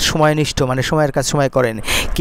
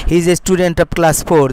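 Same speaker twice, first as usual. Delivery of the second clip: slow dictation; much slower than usual. Shown as a demonstration. Teacher dictates model sentence.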